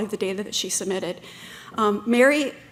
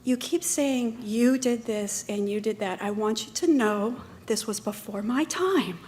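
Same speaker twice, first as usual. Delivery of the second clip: calm and professional. Retold or imitated. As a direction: hold your ground politely and unhurried. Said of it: "looked at him very calmly and said".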